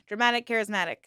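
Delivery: another quick go at a tongue twister; tongue-twister fast. Shown as a demonstration. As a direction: try to get the tricky phrase out quickly. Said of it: "Say that five times fast".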